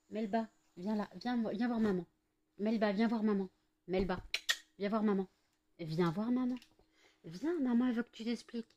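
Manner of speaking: coaxing a pet. Real, not acted. Owner coaxing her cat Melba over, sing-song. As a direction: call the cat over sweetly.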